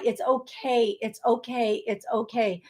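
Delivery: soft, fading repeated comfort; gentle reassurance. Retold or imitated. Passing daughter's comfort to mama, softly reassuring.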